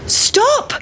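very high shrill call after it; shout. A narrator's reading. Farmer's wife chasing the pancake, high shout. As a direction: call out to stop it running. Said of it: "shouted the mother".

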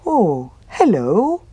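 slow, cheerful bear greeting; friendly bear, slow and happy. A narrator's reading. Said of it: "said the bear happily".

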